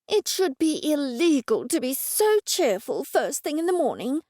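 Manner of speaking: words forced through clenched teeth. Acted. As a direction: grit your teeth and talk. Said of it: "through clenched teeth".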